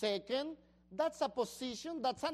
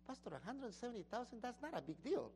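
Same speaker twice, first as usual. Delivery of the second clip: dismissive; 10 dB quieter, faster than usual. Retold or imitated. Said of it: "what you and I think".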